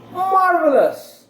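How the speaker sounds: high, drawn-out exclamation of praise; mock delight. Teacher praising the class's guess, mock delight.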